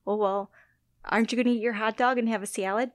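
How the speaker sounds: hammed-up Upper Midwest accent; broad Midwestern vowels on "hot dog" and "salad"; old Midwestern accent. Shown as a demonstration. Showing off the accent wiped away since college, Midwestern accent. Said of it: "Like, that was my ac".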